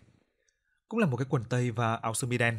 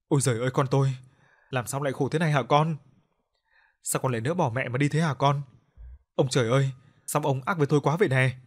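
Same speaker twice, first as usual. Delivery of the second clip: a mother's loud, lamenting wail over her son's coffin; wailing in grief; 2 semitones higher, 4 dB louder than usual. Acted. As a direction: cry out to heaven, louder. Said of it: "mà khóc nức nở". (mẹ khóc than bên quan tài con)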